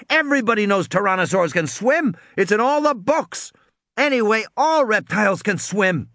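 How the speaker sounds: put-on high, indignant little girl; snippy young Lex; girl's voice. A narrator's reading. Lex lecturing her brother.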